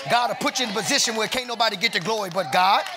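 building, driving church exhortation; fervent preaching. Real, not acted. Preacher calling on somebody to trust God's vision, fervent preaching. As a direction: rouse the congregation with rolling phrases.

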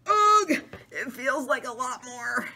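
high, loud little mouse groan. Acted. Mouse in the book grumbling about the weight. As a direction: squeak out the complaint like a tiny mouse. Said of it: "the mouse is saying".

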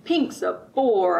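slow, loud, drawn-out pig's complaint; a slow, loud bored grumble; bellow. Acted. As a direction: bellow it out like a fed-up pig. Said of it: "I heard him bellow".

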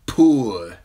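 loud curt order; commanding. A narrator's reading. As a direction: bark the order. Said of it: "Ser Jorah commanded".

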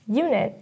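"Unit" with the weight on "U"; strong "U", light "nit" in "Unit"; stress on first syllable. Shown as a demonstration. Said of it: "you can hear the first syllable be stressed".

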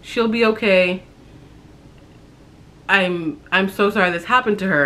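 mild mock crying, sweet and sympathetic; imitating tearful mother-in-law. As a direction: echo her weepy sympathy, only a touch of tears. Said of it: "She immediately starts crying".

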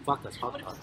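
talking through a burnt mouth; hot food in mouth. Real, not acted. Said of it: "didn't fucking burn my mouth".

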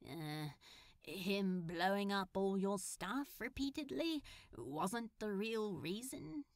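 incredulous. Acted. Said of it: "Crowley asked incredulously".

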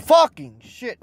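usual speaking voice

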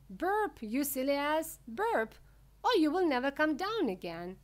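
high, loud urgent warning; retold shouting. Wonka retelling his shouts at the Oompa Loompa, urgent. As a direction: act out shouting up at someone. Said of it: "I stood there shouting".

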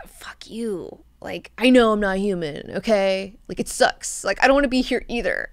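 irritated grumble, starting under the breath; mock irritation. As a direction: act out mild exasperation, hushed curse first. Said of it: "And he is irritated".

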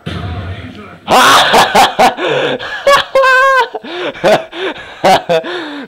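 long high-pitched burst of laughter; real loud cackling laughter. Real, not acted. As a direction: let out a big shrieking laugh.

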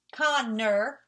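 "Connor" in two distinct beats; "Connor" divided in two; syllable by syllable. Shown as a demonstration. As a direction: clap out both syllables of "Connor". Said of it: "Mister Two Syllables".

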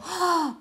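a quick, amazed intake of breath; sharp gasp. Retold or imitated. Lover meeting the Scorpio, a sharp amazed gasp. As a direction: gasp as if struck by wonder. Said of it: "and they were like".

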